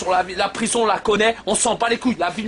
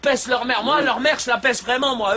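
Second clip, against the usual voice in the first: annoyed, higher-pitched rant; raised voice, genuinely riled; worked-up anger; 3 semitones higher than usual. Real, not acted. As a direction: rant with real irritation. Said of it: "parce que ça m'énerve".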